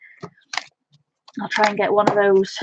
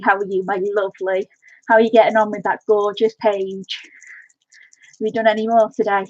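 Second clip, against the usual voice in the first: shaky from shaking pen. Real, not acted. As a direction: voice jiggling from shaking. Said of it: "I sound like I'm out of breath".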